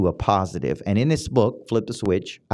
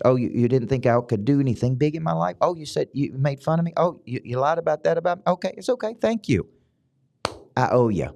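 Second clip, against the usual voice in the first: sarcastic thanks, rising higher to a high "Thank you"; mock gratitude to haters; 3 semitones higher than usual. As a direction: needle the haters with over-sweet thanks, climbing higher. Mock grateful reply to haters.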